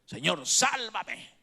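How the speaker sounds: the sinking Pedro calling to the Lord; crying out for help. Acted. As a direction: shout the word sálvame, slow and high. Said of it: "Dios espera que grites".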